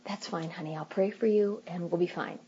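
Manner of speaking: soft, gentle reply; calm reassurance. Retold or imitated. Wife calmly answering husband's call, soft and reassuring. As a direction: reassure him kindly and quietly. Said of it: "Are you saying".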